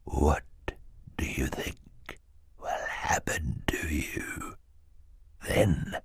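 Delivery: slow, low, soft sinister whisper; menacing whisper. Acted. Henchman warns Klaus he will die, whispering slowly. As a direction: breathe the threat slowly into his face.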